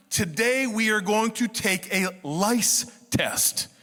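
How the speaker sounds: slow, deliberate classroom announcement; lightly voiced teacher announcement. Teacher announcing a lice test, slow and deliberate. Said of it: "the teacher announced".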